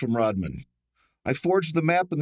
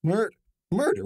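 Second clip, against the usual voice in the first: startled; 5 semitones higher than usual. Acted. Suspect suddenly accused of murder.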